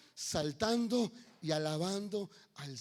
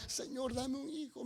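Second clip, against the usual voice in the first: softer, slower plea; 4 semitones higher, 5 dB quieter, slower than usual. Acted. Ana asking God for a son, soft slow plea. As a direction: murmur the request humbly and slowly. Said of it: "El deseo en el corazón de Ana era".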